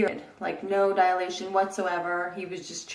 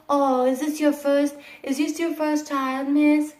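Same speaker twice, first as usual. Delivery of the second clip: higher, breezy small-talk voice; mock casual doctor; 5 semitones higher than usual. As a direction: ape the doctor's chatty tone. Mimics doctor's casual chit-chat.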